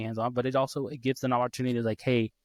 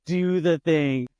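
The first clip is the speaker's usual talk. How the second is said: slow, higher, insistent plea; frustrated parent; 4 semitones higher, 4 dB louder, slower than usual. Retold or imitated. Dad urging daughter on, acting out mounting frustration. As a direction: drag out the order in mock exasperation. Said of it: "it's frustrating to watch".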